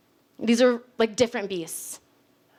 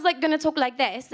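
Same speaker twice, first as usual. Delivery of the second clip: British accent; 2 semitones higher than usual. Shown as a demonstration. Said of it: "have a great British accent".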